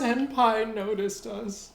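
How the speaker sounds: high, slow swooning fangirl; excited anime fan. Acted. Fangirl quote after "fangirls.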